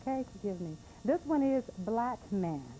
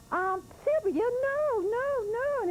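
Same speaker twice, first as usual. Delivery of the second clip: mother; 5 dB louder, much slower than usual. Retold or imitated. Storyteller voices the mother scolding.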